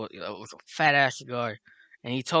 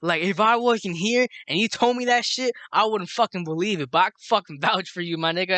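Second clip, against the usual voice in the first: raised-pitch retold amazement; tweaking out; 3 semitones higher than usual. Tito vouching for the storyteller, mildly freaked out. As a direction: imitate a friend worked up in disbelief. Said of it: "He was just tweaking out".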